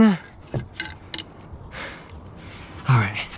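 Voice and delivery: winded after the heat and effort; out of breath. Real, not acted. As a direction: catch your breath between words. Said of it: "I'm out of breath".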